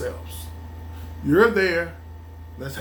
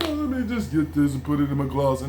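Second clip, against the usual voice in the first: mocking quick shopper; 6 semitones lower, faster than usual.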